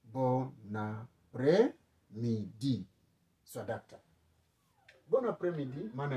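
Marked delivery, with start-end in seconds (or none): 0.0-2.9 slow model word. Shown as a demonstration.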